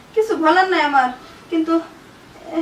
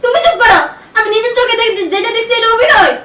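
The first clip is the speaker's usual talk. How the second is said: raised, forceful voice; angry rebuke; 2 semitones higher, 3 dB louder than usual. Acted. Wife silencing husband's denial, angry rebuke. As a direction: shut down the excuse.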